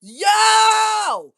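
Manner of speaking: sudden high yell, far up and loud; shocked shout. Real, not acted. Retelling the boy at the flowers, a shocked high yell. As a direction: burst out in disbelief.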